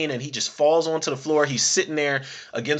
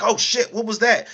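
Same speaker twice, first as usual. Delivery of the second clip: higher, startled yelp of surprise; mock startled; 7 semitones higher, 3 dB louder than usual. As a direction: jump back, half-joking alarm. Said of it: "he's just like".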